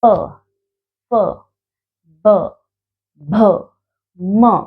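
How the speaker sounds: प फ ब भ म said alone with the lips; sounding out letters. Shown as a demonstration. Teacher demonstrating lip letters one at a time. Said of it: "होठों की सहायता से बोले जाने वाले".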